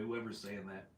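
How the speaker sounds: words pushed out on a burp; talking through a burp. Real, not acted. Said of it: "I'm burping because of the hamburger".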